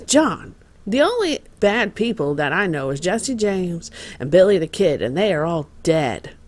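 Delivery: high and loud, grasping for words; stunned reassurance. Retold or imitated. To a friend who just confessed to killing, high loud disbelief.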